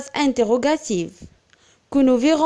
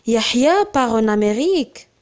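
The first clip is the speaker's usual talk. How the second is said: surprised exclamation; 3 semitones lower than usual. Shown as a demonstration. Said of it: "On exprime une émotion, un étonnement".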